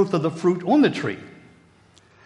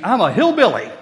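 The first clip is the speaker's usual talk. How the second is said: put-on proud little girl; 6 semitones higher, 7 dB louder than usual. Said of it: "She goes".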